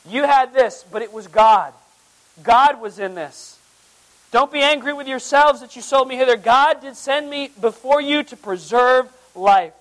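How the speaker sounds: preacher voicing Joseph, fervent and loud. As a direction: plead forgiveness to the brothers with fervor. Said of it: "he says to them".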